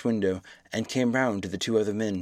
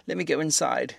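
weeping plea; 5 semitones higher than usual. A narrator's reading. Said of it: "staggering and weeping".

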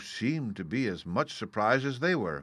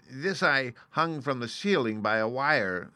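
higher-pitched showman's explanation; explaining little man; 5 semitones higher, 4 dB louder than usual. Acted. Little man demonstrating his trick, high-voiced. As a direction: show off the trick in character.

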